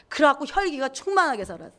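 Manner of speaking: ordinary talk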